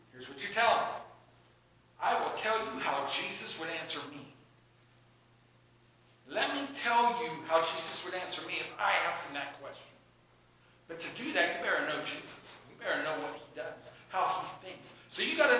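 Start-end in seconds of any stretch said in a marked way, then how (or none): 2.0-9.9 lower, measured, non-argumentative answer; gentle, even-toned counsel; answer without arguing. Shown as a demonstration. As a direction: offer advice calmly, with no fight in it. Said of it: "give the answers like this".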